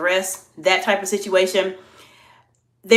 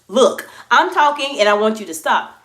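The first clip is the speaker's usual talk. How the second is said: a sharp, louder scold; curt scolding; 4 dB louder than usual. Shown as a demonstration. Leader snapping at a whisperer in a meeting, curt and louder. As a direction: shut the whisperer down bluntly. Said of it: "That is not the way you present yourself".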